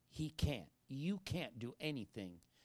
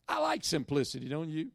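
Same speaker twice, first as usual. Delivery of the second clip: loud aside; 8 dB louder than usual. Real, not acted.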